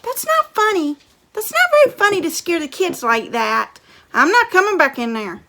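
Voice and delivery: fed-up shouting mother; scolding mom. Acted. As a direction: tell Dad off loudly. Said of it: "Mom said".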